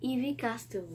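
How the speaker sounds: brand name in a French speaker's English accent. Real, not acted. Vlogger excusing her English as she reads a cream's brand, English accent. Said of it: "désolée pour mon accent anglais qui va être super".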